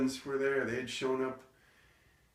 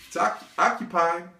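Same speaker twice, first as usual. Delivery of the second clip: high, raised voice through the door; flustered call-out; 8 semitones higher, 8 dB louder than usual. Retold or imitated. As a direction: call out to whoever knocked. Mother calls through bathroom door.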